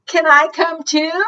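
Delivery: hopeful moose. Acted. Moose asking the crowded canoe to take him, high. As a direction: ask eagerly.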